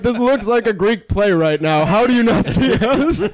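high-pitched comic disbelief; incredulous. Retold or imitated. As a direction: plead in mock amazement, voice pushed up high. Retold incredulous reaction under streetlamp.

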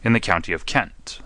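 shouted announcement. Acted. Holmes revealing the prisoner's true name, mildly shouted. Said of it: "he shouted".

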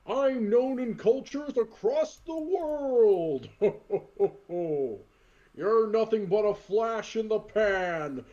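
slow, booming Santa taunt; lightly voiced burly Santa; Santa promo. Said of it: "Santa crosses his arms".

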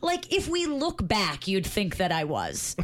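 slowly dictating a text message. Shown as a demonstration. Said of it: "This is for the podcast".

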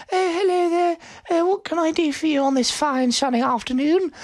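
high cheery clerk voice; bank clerk voice. Acted. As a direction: play the chirpy bank teller.

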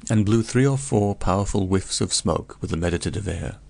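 ordinary delivery

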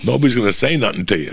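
usual speaking voice

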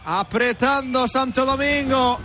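ordinary talk, nothing marked

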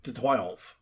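slow hammed-up French accent. Shown as a demonstration. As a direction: savor each French syllable. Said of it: "it's very simple".

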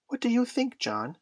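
very high little-brother voice; small boy asking. A narrator's reading. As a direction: ask big brother in a high child's voice. Small Michael asks his brother.

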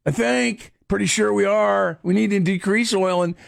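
lightly mocked self-styled expert, stammering and restarting; clueless online responder. Host keeps mimicking the guy responding to Elon Musk, mock clueless expert. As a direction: fumble along as an unsure know-it-all. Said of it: "that was the guy responding".

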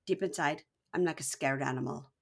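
low-key mock confessional; calm, serious. Girlfriend confiding to camera, calm and serious. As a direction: settle down into earnest, measured softness. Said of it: "in a very, like, calm, serious moment".

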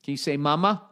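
put-on high, rising prompts to a toddler; lightly high coaxing to the baby; coaxing baby talk. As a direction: coax each word out gently, lifting the end. Teaching the baby words.

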